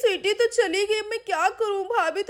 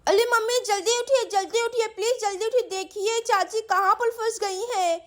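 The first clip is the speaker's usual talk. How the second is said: insistent, slightly raised pleading; urgent child's calling; 4 semitones higher than usual. Acted. Sweety waking mummy to help aunt, urgent calling. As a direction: hurry someone awake in a child voice. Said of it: "क्यों चिल्ला रही हो?".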